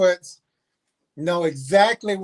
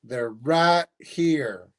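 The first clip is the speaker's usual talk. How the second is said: robotic alarm voice; much slower than usual. Retold or imitated. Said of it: "alarm go off, that saying".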